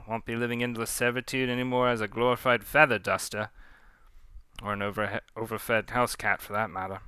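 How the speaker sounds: put-on pirate captain's loose Cockney accent. Leah planning life after Pontou, Cockney defiance. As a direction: gloat over your plans in wobbly Cockney. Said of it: "I'm trying to do Cockney accent".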